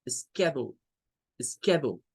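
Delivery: "schedule" ending on U, said skedu; no final L. Shown as a demonstration. Teacher shows "schedule" without the L. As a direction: drop the L at the end of "schedule". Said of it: "le quitan la L y le dejan solo la U".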